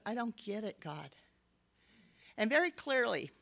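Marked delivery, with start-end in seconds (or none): 0.1-1.1 weary quiet. Retold or imitated. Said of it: "I took a deep breath".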